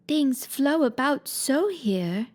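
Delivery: slow, plaintive and a little lost; slow plaintive complaint. Acted. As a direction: sigh it out, puzzled and plaintive. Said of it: "in a plaintive tone".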